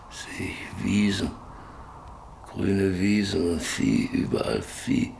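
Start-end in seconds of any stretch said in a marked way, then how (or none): 0.1-1.3 hushed, faraway murmur; whispering the vision of green meadows; dreamy whisper. Acted. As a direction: breathe it out as if seeing it. Eyes closed, lost in memory.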